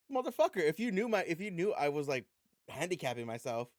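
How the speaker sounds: retold angry retort. Scolding the opponent who kept a tip back, mock outrage. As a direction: let the indignation burst out.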